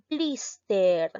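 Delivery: "Blister" with the first syllable hit, BLIS-ter; stress on BLIS. Shown as a demonstration. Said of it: "recae en la sílaba blis". ("Blister" con fuerza de voz en BLIS)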